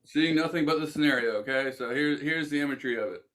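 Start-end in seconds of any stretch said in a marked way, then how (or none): 0.1-1.7 guided visualization. Acted.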